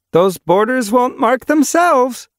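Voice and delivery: high, slow voiced she-cat; high female cat voice. A narrator's reading. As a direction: voice her brightly, slowly. Bright Sky urging apprentice.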